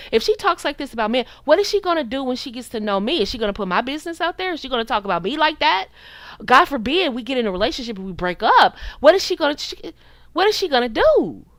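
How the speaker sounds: quick run of incredulous questions; mock worried questioning. Men thinking about a woman who talks like this, mock alarmed questioning. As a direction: imitate a man fretting, pace picking up. Voicing men's worried thoughts.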